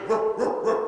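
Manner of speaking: dog teacher's demonstration bark; bassy bark. Shown as a demonstration. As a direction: show the pup a fuller bark. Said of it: "You wanna put more bass in".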